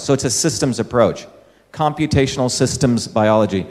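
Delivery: "systems" leaned on a little, said with weight; gentle stress on "systems" in a lecture. Shown as a demonstration. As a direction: give the word "systems" a light extra push each time. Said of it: "emphasis on the word system".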